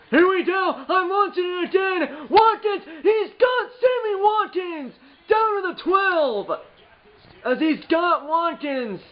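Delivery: high, loud, stretched announcer yell; real thrill calling his own big play; excited shout. Real, not acted. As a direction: scream the long completion. Deep pass completed.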